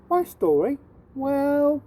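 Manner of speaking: put-on a boy stalling before his tale; surprised. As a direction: caught off guard, stretching the well. Jim taken aback by request.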